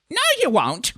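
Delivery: high, loud refusal; angry snap. A narrator's reading. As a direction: cut her off sharply. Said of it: "snapped Nanny Ogg".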